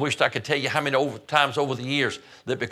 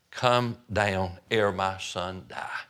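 pleading; 4 semitones lower, much slower than usual. Retold or imitated. Nobleman begs Jesus for son.

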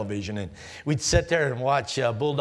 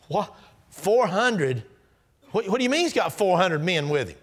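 alarmed disbelief; 5 semitones higher, 3 dB louder than usual. Acted. Jacob hearing of four hundred.

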